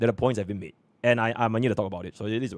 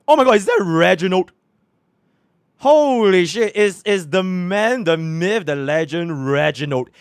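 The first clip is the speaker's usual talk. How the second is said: excited shout, much higher and louder; hyped; 7 semitones higher, 7 dB louder, slower than usual. Real, not acted. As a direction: hype up the legend. Hyped recognition of streamer.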